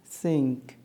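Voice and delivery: सिंक said slowly, ending on a crisp k; k sound at the end. Shown as a demonstration. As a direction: stress the final k of सिंक. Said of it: "starting में एस और last में कौ का". (अंत में साफ़ क के साथ सिंक)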